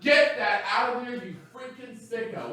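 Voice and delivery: mock outrage. Mock scolding a friend.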